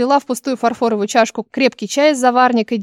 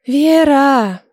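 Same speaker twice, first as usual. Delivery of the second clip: sighing; 3 semitones higher, 4 dB louder than usual. A narrator's reading. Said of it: "вздохнула приятельница".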